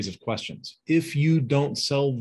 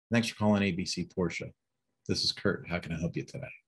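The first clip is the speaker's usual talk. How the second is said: flat, bored phone greeting trailing lower and softer; resting bitch face; 3 semitones lower, 5 dB quieter than usual. Shown as a demonstration. Receptionist grudgingly answering the dealership phone, flat and bored. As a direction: answer like you don't want the call. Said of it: "I'm gonna give you an example".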